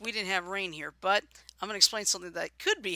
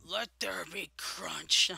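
whisper; 3 semitones lower, slower than usual. Pretend. Joking about the crunching.

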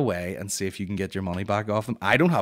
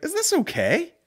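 timid question; 3 dB louder, slower than usual. Retold or imitated. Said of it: "I was like".

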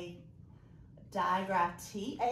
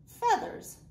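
Feathers said high and louder; excited word; 14 semitones higher, 6 dB louder than usual. Shown as a demonstration. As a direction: sing out Feathers with delight. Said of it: "Let's say it together".

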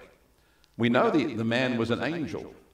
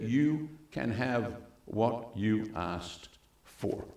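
gentle grant; 5 dB quieter, much slower than usual. Acted.

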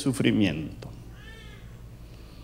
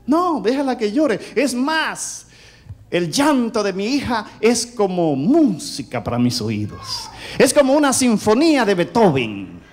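chuckling through a proud father's boast; a proud dad laughing that the crying is music to him; laughing retort; 3 semitones higher than usual. Retold or imitated. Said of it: "mi esposa me dice".

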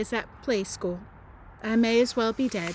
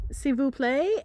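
French attempt; 3 semitones higher than usual. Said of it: "only speaking French".

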